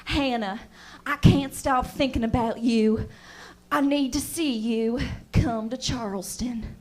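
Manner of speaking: mock romantic man. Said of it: "he's like".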